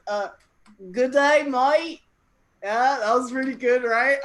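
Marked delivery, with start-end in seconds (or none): 0.9-2.0 louder, higher comic Australian greeting; attempted Australian accent. Shown as a demonstration. Host showing off accents to the audience, attempted Australian accent. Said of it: "here's my Australian accent".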